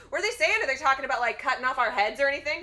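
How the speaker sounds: loud, high pestering questions; mock negging. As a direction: badger him as the retold party. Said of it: "just, like, negging him".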